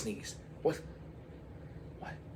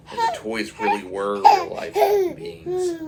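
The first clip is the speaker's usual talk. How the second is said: loud, cracking with laughter; can barely get it out; laughing high; 10 dB louder than usual. Real, not acted.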